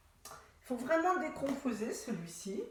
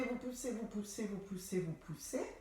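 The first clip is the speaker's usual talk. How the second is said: softer, descending repeats; fading repeated cue; 6 dB quieter than usual. Shown as a demonstration. Instructor urging a long push, fading repeats. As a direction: keep pushing as the breath runs down. Coach counting through a continuous push.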